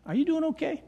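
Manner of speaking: high-pitched careful question; tentative check-in. Retold or imitated. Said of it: "I said".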